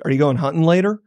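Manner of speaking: "hunting" cut short, ending in -n; dropped g. Shown as a demonstration. Man admitting his Southern slip, "hunting" with dropped g. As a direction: clip "hunting" to hunt'n, no g. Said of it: "it's mega sh-, mega short".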